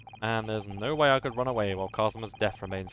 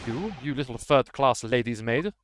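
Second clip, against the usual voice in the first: a slower, louder retry of the sailor, lightly voiced; gruff sailor retry; 3 dB louder, slower than usual. The burly sailor retries his sneer at the maid, lightly voiced. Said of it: "All right, let me try instead".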